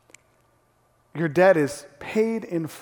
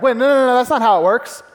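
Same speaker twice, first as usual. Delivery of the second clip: mock protest; 4 semitones higher, 5 dB louder than usual. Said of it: "You might be starting to push back, be like".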